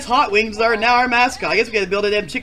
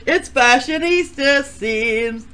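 excited greeting; 5 semitones higher, 7 dB louder than usual. Acted. Host opening the show.

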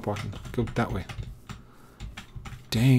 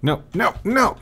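frustrated no; 7 semitones higher than usual. Real, not acted. Pig escapes again.

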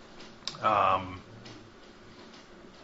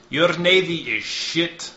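contemptuous jab; 4 semitones higher, 5 dB louder than usual. Acted. Ryu insults envoy.

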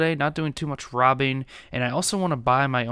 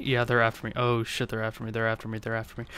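anxious undertone; 2 semitones lower, 6 dB quieter, faster than usual. Real, not acted. Cops start chasing him.

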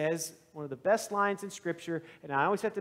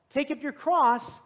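higher, louder, slow proclamation; calling to crowd; 7 semitones higher, 4 dB louder, slower than usual. Acted. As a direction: take up your cross, called out slowly to the whole crowd. Jesus calls to the crowd.

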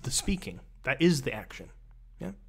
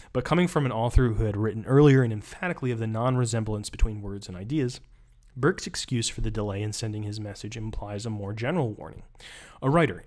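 reading aloud. Acted. Reading the book passage aloud.

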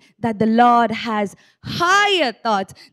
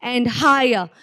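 earnest declaration; slower than usual. Shown as a demonstration. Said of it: "place your hand on your chest and say".

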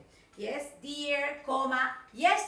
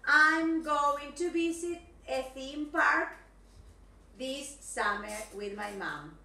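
I'm going to visit a theme park read slowly and loud; a slow, deliberate big reveal; 4 dB louder, slower than usual. Shown as a demonstration. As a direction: reveal the hidden message slowly. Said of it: "Ese era el mensaje escondido".

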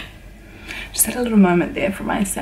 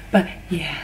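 hushed, softer whisper; excited whisper; 4 semitones lower, 8 dB quieter than usual. Real, not acted. Whispering to viewers so people can sleep. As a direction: whisper it to keep from waking people. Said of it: "I'm trying not to talk too loud".

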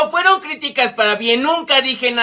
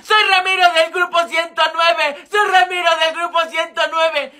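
mild mock yell, slightly raised pitch; retold shouting; 3 semitones higher than usual. Boy recounts shouting while being stoned, mild mock yell. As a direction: re-enact calling out your identity, half-strength. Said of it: "yo les gritaba".

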